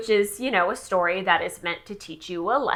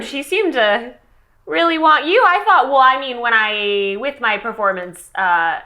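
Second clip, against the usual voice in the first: reluctant chosen one; 4 dB louder than usual. Acted. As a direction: ask like you never expected it. Player voices pageant contestant.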